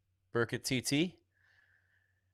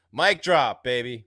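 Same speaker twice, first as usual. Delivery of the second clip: louder, pumped-up hype call; excited shout; 6 dB louder, slower than usual. Real, not acted. Host hyping a viewer's comment on stream, excited shout. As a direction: shout it like a mic drop.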